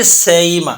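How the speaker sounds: سئیمہ with the hamza gliding halfway to ya; bayn bayn qareeb. Shown as a demonstration. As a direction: stretch سئیمہ, neither full hamza nor full ya. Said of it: "بین بین قریب کر کے پڑھنا چاہتے ہیں". (ہمزہ اور یا کے درمیان سئیمہ)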